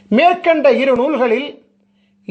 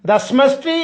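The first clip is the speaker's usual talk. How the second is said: slow, measured recitation of a Sanskrit verse; sloka recitation; 2 semitones lower than usual. Acted. Speaker reciting a guru sloka before explaining it, slow recitation. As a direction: recite the verse slowly, drawing out the syllables.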